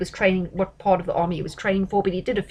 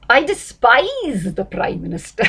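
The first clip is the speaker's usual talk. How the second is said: defiant retort; 3 semitones higher, 4 dB louder, slower than usual. Acted. Politician hitting back at a journalist, defiant retort. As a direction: lean long and hard on "despise".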